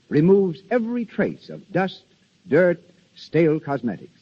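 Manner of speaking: smooth persuasive radio commercial voice; ad read. Acted. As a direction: sell the soap like a thirties announcer. Soap advertisement read.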